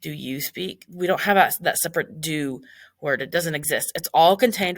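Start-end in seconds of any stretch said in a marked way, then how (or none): 0.0-0.9 slow demo. Shown as a demonstration.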